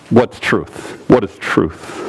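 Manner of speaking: low, offhand question; throwaway. Acted. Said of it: "throwaway statement by Pilate".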